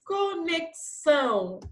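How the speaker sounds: "Conexão" high and slow, with a marked ks. Shown as a demonstration. Teacher repeating the sound for pupils, "Conexão" with clear ks. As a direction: split "Conexão" into ko-nek-são. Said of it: "Ó o sonzinho".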